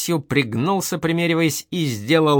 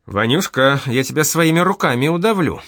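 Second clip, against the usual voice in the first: higher, louder mock threat; old nanny threatens Vanya, mock angry; threatening; 4 semitones higher, 4 dB louder than usual. A narrator's reading. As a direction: scold him with a threat. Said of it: "пригрозила Митрофанна".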